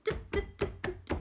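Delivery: little unvoiced stomps; smaller baby sound. Shown as a demonstration. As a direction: breathe out "Duh" like a baby dinosaur. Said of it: "you're gonna make a smaller sound".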